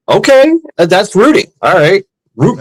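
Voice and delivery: stunned tourist shrugging it off; mock dazed. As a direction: squeak it out, stunned. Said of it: "I'm like".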